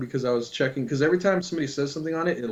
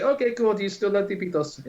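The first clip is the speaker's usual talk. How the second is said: mock taunt; 6 semitones higher than usual. Taunting the angry worker.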